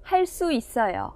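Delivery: 할 수 있어요 with 수 tensed to 쑤, softly; tensed consonant demo. Shown as a demonstration. Teacher models 할 수 있어요 for learners, tensed 쑤. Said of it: "cô ấy phát âm chính xác".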